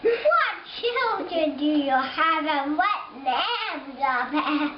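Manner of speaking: bleating sheep voice; sheep accent. Acted. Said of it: "A sheep accident".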